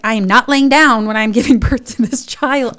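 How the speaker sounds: loud, emphatic mock refusal; stubborn retold protest with a laugh; defiant. Laboring patient refusing to lie down, defiant. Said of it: "I was just being defiant".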